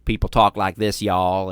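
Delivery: light Southern US accent. Shown as a demonstration. Host showing British guest how Southerners talk, light Southern accent. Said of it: "Southern accents where".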